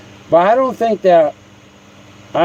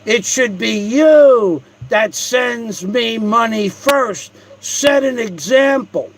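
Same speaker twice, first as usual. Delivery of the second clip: higher shouted mock rant; mocking the blogger; 5 semitones higher than usual. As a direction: ham up a streamer begging for money. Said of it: "the most famous line this month from that famous blogger".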